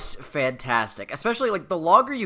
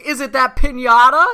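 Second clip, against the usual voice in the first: high silly voice; 9 semitones higher, 10 dB louder than usual. Retold or imitated. Buster pointing around room.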